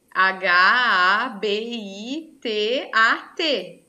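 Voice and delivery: "H A B I T A T" spelled letter by letter, very slow; spelled out slowly. Shown as a demonstration. Teacher spells the word for students, slow letter by letter. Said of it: "falar que um animal está no seu habitat".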